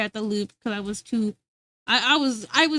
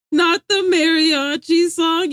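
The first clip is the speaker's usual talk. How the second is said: laughing protest; 4 semitones higher, 5 dB louder, slower than usual. Real, not acted. Laughing correction, slowed.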